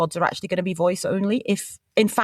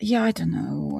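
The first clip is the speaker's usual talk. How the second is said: whispered; 4 semitones lower, slower than usual. Real, not acted. Torn over acting score.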